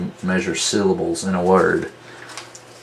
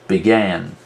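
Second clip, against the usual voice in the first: "Began" with a weak be and strong GAN; stress on GAN. Shown as a demonstration. Teacher showing unstressed then stressed, "Began" with GAN stressed. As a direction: lean on the second syllable of "Began". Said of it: "Unstressed followed by stress".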